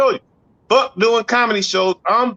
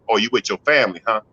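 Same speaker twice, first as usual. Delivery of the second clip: jealous lover; 6 semitones lower, faster than usual. Retold or imitated. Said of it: "he get mad than a motherfucker".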